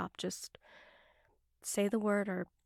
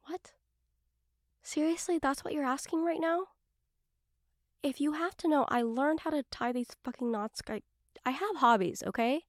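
flustered; 5 semitones higher than usual. Acted. Flustered, defensive at question.

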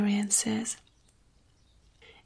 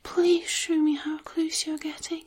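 breathy begging, lifting higher on please; pleading; 4 semitones higher than usual. Pretend. Begging the listener to keep going, breathy pleading. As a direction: beg with breathy urgency. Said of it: "I'll probably beg you to keep going".

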